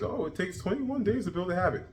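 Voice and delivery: a hint of scoffing at advice; mocking common saying. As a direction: sneer at the old habit myth a little. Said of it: "I don't just mean the typical".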